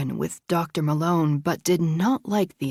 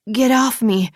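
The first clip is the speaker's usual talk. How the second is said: shouted protest; 5 semitones higher, 7 dB louder than usual. A narrator's reading. Avery fights off assailant.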